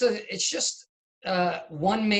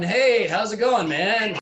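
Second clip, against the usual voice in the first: raised, eager calls to a friend who never answers; playing the lonely guy; 3 semitones higher, slower than usual. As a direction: call out brightly, then plead. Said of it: "walking around and going".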